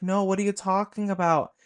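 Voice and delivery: loud, high incredulous reply, acted out; mother yelling back. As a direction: imitate mom shouting back a denial.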